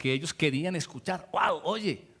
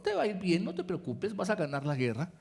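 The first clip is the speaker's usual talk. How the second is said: softer, mocking echo of the flattery; a bit sarcastic; 6 dB quieter than usual. Miqueas mockingly repeats the prophets' promise to the king, mildly sarcastic. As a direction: say it back with a hint of sarcasm. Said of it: "así como un poquito sarcásticamente".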